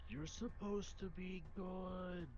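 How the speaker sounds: yelling, but sounding sad. Yelling at a sphinx that is supposed to be good: sad yelling. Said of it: "I'm just, like, yelling, but, like, sad".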